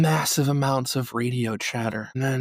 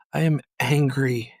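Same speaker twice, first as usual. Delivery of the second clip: restrained anger; 4 dB louder than usual. Real, not acted. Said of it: "I am quite angry".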